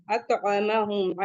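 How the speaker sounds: slow recited अतअमहुम; slow tajweed reading; recitation demo. Shown as a demonstration. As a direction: recite अतअमहुम slowly, syllable by syllable. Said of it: "आइन को भी जल्द पढ़ेंगे".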